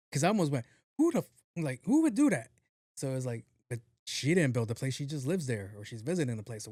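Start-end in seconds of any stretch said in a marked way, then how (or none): 1.0-1.3 high, loud cut-off outburst; nearly cursing. Retold or imitated. Almost cursing at the unhelpful girl, loud high outburst. 1.8-2.5 high, loud cut-off outburst; nearly cursing. Retold or imitated. Almost cursing at the unhelpful girl, loud high outburst.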